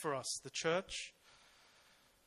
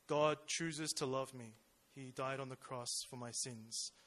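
cold, emotionless; 3 semitones lower than usual. Retold or imitated. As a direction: recite it like a dry fact, no feeling. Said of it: "cold, kind of emotionless".

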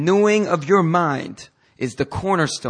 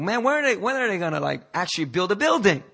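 mock exasperation, pitched up high; retold impatience; 5 semitones higher than usual. Preacher recalling watching the construction site, retold impatience. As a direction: act out griping at a wait.

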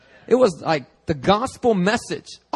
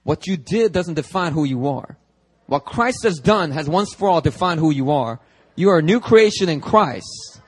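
building from firm to a loud, high shout; rising to a fervent pulpit shout; rousing imitation of a fired-up preacher; Pastor Robert Daniels shouting; 4 semitones higher, 7 dB louder than usual. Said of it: "That's Pastor Robert Daniels".

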